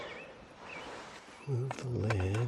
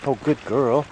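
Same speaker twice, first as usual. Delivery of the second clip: 1 excited praise; 4 semitones higher, 7 dB louder than usual. Real, not acted. Praising dog who came.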